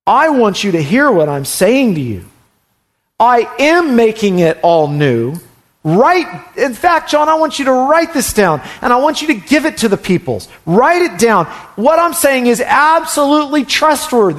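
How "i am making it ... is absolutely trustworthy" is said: high, commanding proclamation as God; God speaking. Retold or imitated. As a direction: speak as God ordering John to write it down. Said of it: "This is God speaking".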